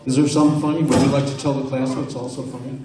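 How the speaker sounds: high, loud scolding teacher voice; stern teacher. Pretend. Hypnotized man plays a teacher scolding a laughing student. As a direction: scold the giggling boy like a teacher.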